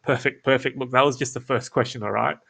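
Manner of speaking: light amused lilt, on the verge of a chuckle; hint of a chuckle. Shown as a demonstration. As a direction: let a smile into the voice, no laugh yet. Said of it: "throw in, like, a quick chuckle at the end".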